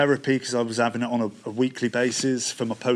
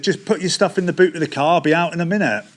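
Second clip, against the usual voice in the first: cheery host voice; 4 semitones higher, 4 dB louder, faster than usual. Retold or imitated. Quoting the man at his door.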